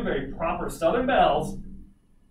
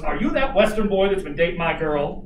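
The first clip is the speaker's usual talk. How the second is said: imitating a Southern dad, louder; Southern father; 5 dB louder than usual. Girlfriend's dad confronts the Western boy, mock Southern challenge. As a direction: loudly quiz the suitor as her father. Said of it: "like Colonel Sanders".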